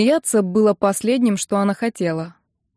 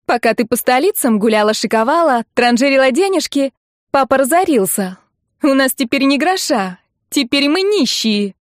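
high, louder outburst, slowing at the end; hysterical reproach; 5 semitones higher, 4 dB louder than usual. A narrator's reading. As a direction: wail the ruin at your sister accusingly. Hysterical sister berates Ninka. (истеричный упрёк)

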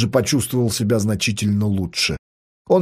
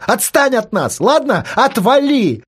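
shouting; 11 semitones higher, slower than usual. Acted. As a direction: scream at him to back off. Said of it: "кричала Катя во весь голос".

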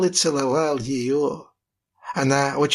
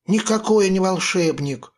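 protesting exclamation; 6 semitones higher than usual. A narrator's reading. Boy denies being a wizard to the pirates, exclaiming higher. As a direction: insist hotly he's no wizard. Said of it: "воскликнул я".

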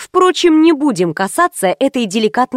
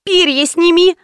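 pleading; 7 semitones higher than usual. A narrator's reading. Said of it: "взмолилась я".

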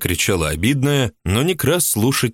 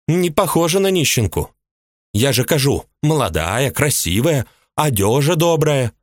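a much higher woman's voice, resentful and indignant; jealous housewife; 7 semitones higher than usual. A narrator's reading. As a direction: play the jealous mistress complaining. Ulyba voiced high.

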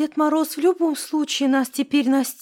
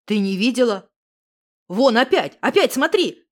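louder, urgent insisting; 3 semitones lower, 4 dB louder than usual. A narrator's reading. Misha urges Alyona to look again, loud and urgent. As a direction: press her to look, now.

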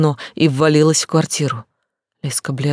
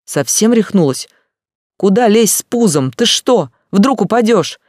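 higher, louder worried scolding; higher, louder women scolding the pregnant one; alarmed scolding; 6 semitones higher, 6 dB louder than usual. A narrator's reading. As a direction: tell her she's mad to climb.

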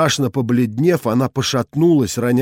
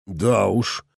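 a sullen mutter; low, grim mutter; gloomy grumble; 4 semitones lower, 4 dB quieter than usual. A narrator's reading. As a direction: grumble it darkly. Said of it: "буркнул я мрачнее".

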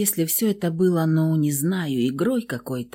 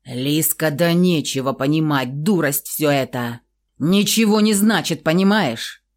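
raised voice; 3 dB louder than usual. Acted. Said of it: "На повышенных тонах отвечал".

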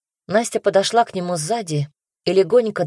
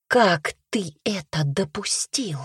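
menacing whisper; 3 semitones higher, slower than usual. Acted. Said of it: "грозно прошептала".

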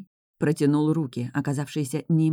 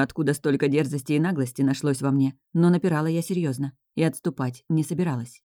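plain reading voice

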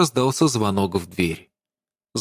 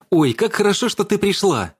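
rapid, bright, much higher chatter; chattering excitedly; 10 semitones higher than usual. A narrator's reading. Dasha greeting her friend at the door, chattering excitedly. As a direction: gush with delight at a friend's arrival. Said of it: "тараторила Даша".

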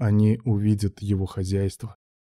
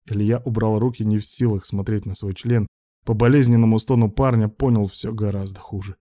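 usual speaking voice

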